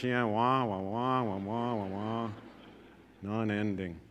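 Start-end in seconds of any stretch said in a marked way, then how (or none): 0.0-2.3 fading wah wah drone; muffled wah wah talk. Retold or imitated. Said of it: "how many youth here could relate".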